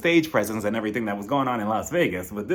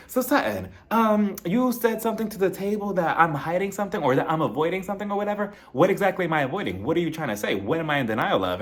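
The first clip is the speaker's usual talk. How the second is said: higher mock challenge; imitated confrontation; 4 semitones higher than usual. Kyle confronting Sutton before the crowd, mock challenging. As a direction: imitate her pressing for answers. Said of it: "She decides to confront Sutton".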